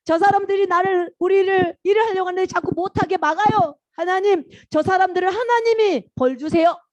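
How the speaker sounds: play-acted distressed complaint; acted pleading prayer. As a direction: tell on the bullies to God. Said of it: "하나님께 가서".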